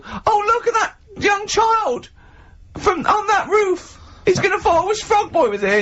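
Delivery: very high, slow mock-panicked cry; hammed-up high crowd voice; panicked bystander. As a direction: shriek like a fretting passer-by.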